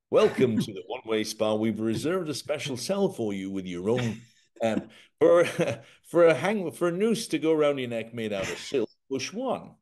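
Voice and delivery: lightly voiced receptionist, breaking into laughter; mock hotel greeter. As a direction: welcome the guest like a grim spa host. Mock welcome to Guantanamo prison.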